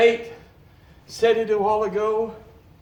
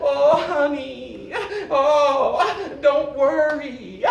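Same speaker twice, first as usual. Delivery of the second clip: tender comfort; slower than usual. Retold or imitated. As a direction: comfort her like a loving husband, slowly. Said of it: "This old prophet whispered in her ear".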